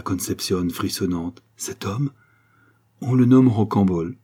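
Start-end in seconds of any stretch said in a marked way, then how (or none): 3.0-4.2 cold, louder reveal of the name; coldly. Acted. Countess revealing the suitor's name to Concepcion, coldly. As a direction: drop the name coldly, no warmth. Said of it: "dit froidement la comtesse Artolphe".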